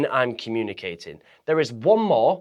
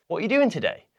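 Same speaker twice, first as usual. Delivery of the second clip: What are you doing today? with the pitch rising to the end; question tune demo; 6 semitones higher, faster than usual. Shown as a demonstration. Coach demonstrating a question to viewers, rising tune. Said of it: "you go like this".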